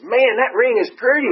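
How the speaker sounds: a guileless, loud admiring remark; friend's blunt compliment. Retold or imitated. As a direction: innocent friend gushing over a ring. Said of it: "he goes".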